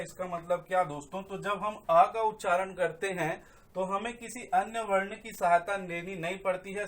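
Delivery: normal talking voice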